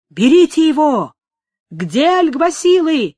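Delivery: loud, high, drawn-out yells; crowd's shout. A narrator's reading. Angry crowd calling for police to seize him, shouting. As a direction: shout for the arrest, pitched well up. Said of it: "кричали в толпе".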